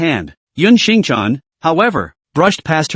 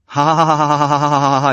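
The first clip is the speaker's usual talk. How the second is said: laughing; faster than usual. A narrator's reading. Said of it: "even more laughter".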